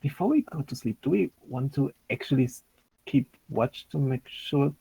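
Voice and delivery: softly voiced, lightly acted whisper; hushed, voiced aside to companions; in-character whisper. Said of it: "I, I whisper".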